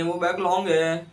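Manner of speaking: बैकलॉन्ग said with a nasal ng ending, stretched as back-long; pun on backlog. Shown as a demonstration. Teacher joking to students that a huge backlog is a बैकलॉन्ग. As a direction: stress the pun word बैकलॉन्ग, ending on ng instead of g. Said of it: "तो वो बैकलॉग नहीं है".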